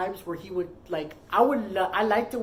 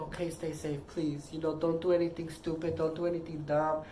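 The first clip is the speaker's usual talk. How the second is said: retold gentle caution, lower and softer; caring plea; 3 semitones lower, 6 dB quieter than usual. Partner reminding him before he goes out, soft caring plea. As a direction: quietly reenact a worried partner's reminder.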